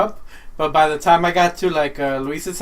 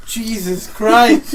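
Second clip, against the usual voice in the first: laughing disbelief; 4 semitones higher, 5 dB louder, much slower than usual. Retold or imitated. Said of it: "I'm like".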